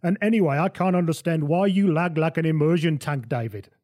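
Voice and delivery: lightly put-on foreign accent, puzzled complaint; Johan. Johan challenges David's odd outfit, lightly put-on accent. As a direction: question him in a lightly accented voice. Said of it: "get the accent right".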